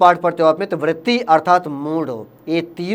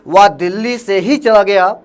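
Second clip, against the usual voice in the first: slow read, leaning hard on ही; ही said slower and heavier than the words around it; stress on ही. Shown as a demonstration. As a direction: weigh down the word ही in "वह दिल्ली से ही चला गया". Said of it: "ही पे दिया".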